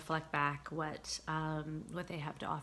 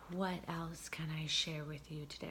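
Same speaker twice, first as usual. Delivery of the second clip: whisper; 6 dB quieter than usual. Real, not acted. Soft aside to viewers.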